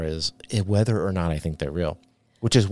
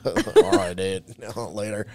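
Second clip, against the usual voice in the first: put-on surfer boy voice; slower than usual. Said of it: "You busted the surfer boy voice out".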